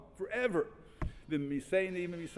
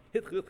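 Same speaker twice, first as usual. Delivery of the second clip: imitated sobbing; 5 semitones higher, 4 dB louder than usual. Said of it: "he started crying".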